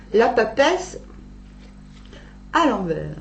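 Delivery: stumbling words round a dental retainer; wearing a retainer. Real, not acted. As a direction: talk through a retainer in the mouth. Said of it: "j'ai mon appareil dentaire". (avec un appareil dentaire dans la bouche)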